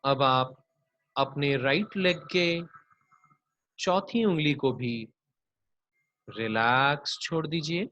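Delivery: unhurried body-scan meditation voice; guided yoga nidra. Acted. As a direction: draw out each "relax", lead them gently into rest.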